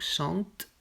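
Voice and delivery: chante said ʃɑ̃t, with no vowel after the t; silent ent ending. Shown as a demonstration. Teacher modelling the verb form, ent ending silent. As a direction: end chante on the t. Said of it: "On ne prononce pas le dernier T ou E N".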